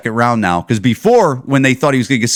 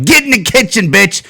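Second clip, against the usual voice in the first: mock macho husband; 7 semitones higher than usual. Mocking a macho husband ordering his wife to the kitchen, high and barking. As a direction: play the bossy husband shouting orders. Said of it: "Where it's like".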